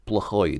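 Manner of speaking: slow плохой, weight on the final syllable; плохой said slowly with "ой" stressed; stress on the ending. Shown as a demonstration. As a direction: draw out плохой as pla-KHOY. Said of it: "the ending is stressed".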